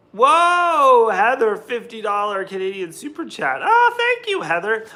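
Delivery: high, loud whoa of delight; excited thanks. Real, not acted. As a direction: burst out in happy surprise at a gift. Reacting to a viewer's donation.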